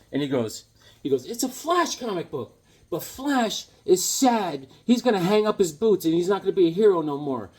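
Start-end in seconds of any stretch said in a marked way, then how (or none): 1.3-7.5 lightly voiced young boy, pitched higher; a kid explaining his sad comic, voice raised. Retelling a comic script, the boy answers the cowboy in a higher kid voice.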